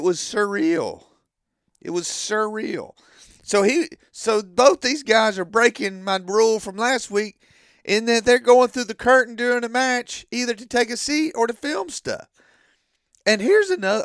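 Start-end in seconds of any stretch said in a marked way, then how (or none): 3.4-14.0 heated, higher-pitched complaint; getting emotional. Real, not acted. Fan complaining about guys breaking his rule, getting emotional. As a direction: rant with rising agitation and punched words. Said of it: "Sorry, I'm getting emotional".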